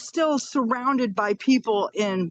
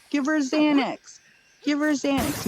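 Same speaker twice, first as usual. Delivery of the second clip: urgent shout; 7 semitones higher than usual. Retold or imitated. Mother shouting to staff to sedate her screaming daughter, urgent shout. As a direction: shout it at the staff so they hurry. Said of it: "I'm like".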